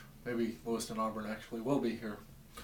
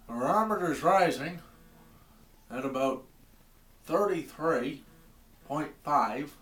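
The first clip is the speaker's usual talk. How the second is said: put-on southern accent; 3 semitones higher, 6 dB louder than usual. Bob on his porch reading the barometer, in a southern accent. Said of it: "I gave him a southern accent".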